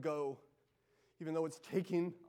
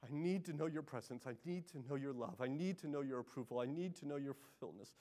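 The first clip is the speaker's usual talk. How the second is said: softer, pleading prayer; quiet plea; 4 semitones lower, 7 dB quieter than usual. Acted. A worshipper echoing Jacob's cry, quietly pleading. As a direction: beg God quietly and humbly. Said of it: "echo Jacob's cry".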